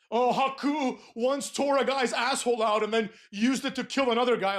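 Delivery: lightly mocking awestruck fan voice; mocking quote. Wrestling fan retelling Haku's legend, mocking awe. Mimics fans' tall tales, then dismisses.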